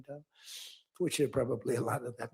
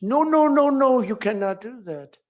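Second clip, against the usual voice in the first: alarmed mock protest; 9 semitones higher, 8 dB louder than usual. Macron protesting tariff threat.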